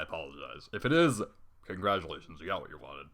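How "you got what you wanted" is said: ordinary delivery, nothing marked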